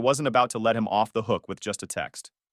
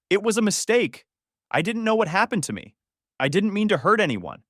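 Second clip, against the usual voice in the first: mock tearful pleading; 8 semitones higher, 3 dB louder than usual. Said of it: "She immediately started crying".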